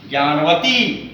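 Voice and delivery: ज्ञानवती with a long "ee" at the end; long final vowel. Shown as a demonstration. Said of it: "यहाँ भी देखिएगा बड़ी की मात्रा है".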